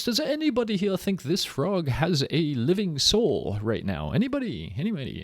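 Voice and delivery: put-on a hammy Italian showman accent, not fully committed; Luigi Galvani Italian accent. Lecturer playing Galvani showing frog legs to the academy, lightly done Italian accent. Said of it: "I don't know if I could do a Luigi Galvani accent".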